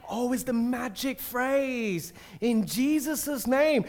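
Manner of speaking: slow, knowing mock reveal of a magic phrase; a naive exorcist sure he has found the spell; mock discovery. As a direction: let the sons savour their secret trick. Sons of Sceva think it's magic.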